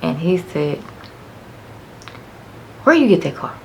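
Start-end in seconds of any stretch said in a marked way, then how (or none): 2.8-3.5 higher, louder demanding dad; stern dad. Retold or imitated. Dad demanding where daughter got the car, higher and louder. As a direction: question her sharply.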